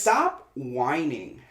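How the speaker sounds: slow, blunt "Stop whining"; dismissive. Retold or imitated. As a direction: say it slowly and flatly. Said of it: "And so I was like".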